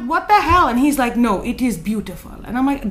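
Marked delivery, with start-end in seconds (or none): 0.0-0.7 high, loud, startled retort; acted outburst of disbelief; indignant disbelief. Acted startled reply to a stranger. 1.2-2.3 imitated African man's accent; African-accented stranger, insisting. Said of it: "I'm going to do an African accent".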